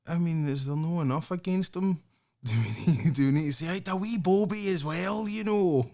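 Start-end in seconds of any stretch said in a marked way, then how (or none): 3.7-5.9 high, lightly put-on gossiping voice; mock gossip. Mocking the tabloids with a higher sly gossip voice. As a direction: toss it off like a sly rumor.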